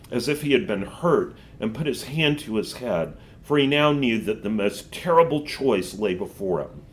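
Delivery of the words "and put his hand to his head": ordinary delivery, nothing marked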